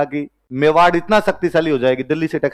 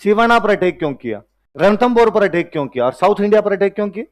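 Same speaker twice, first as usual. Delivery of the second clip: sceptical questioner; 4 semitones higher than usual. Retold or imitated. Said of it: "फिर कोई कहेगा".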